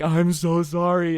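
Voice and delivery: high, drawn-out insincere sorry; badly faked apology. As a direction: apologize unconvincingly while fighting giggles. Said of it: "it's just coming out really bad".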